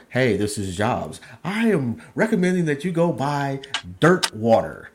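slow, firm debt collector ad read; bill collector voice. Pretend. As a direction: deliver it like a stern bill collector pitching a product. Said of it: "you got the bill collector voice".

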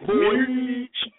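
put-on Jamaican accent. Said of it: "Y'all Jamaican accents suck monkey balls".

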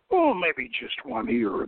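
drawling. A narrator's reading. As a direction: stretch it out, unbothered. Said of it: "the Phoenician pirate drawled".

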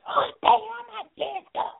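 high falsetto yell as Madea; Madea shouting. Retold or imitated. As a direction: bellow it through the door like Madea. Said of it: "She goes".

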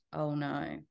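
barely there, as if down the phone; faint. Acted. Friend on the phone hearing the row, faint worried gasp. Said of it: "I heard a faint".

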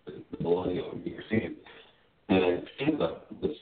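choppy call audio, words dropping out; muffled, breaking-up phone line; sounds underwater. Real, not acted. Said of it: "You sound like you're underwater".

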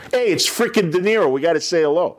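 put-on starstruck kids. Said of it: "I was gonna say De Niro".

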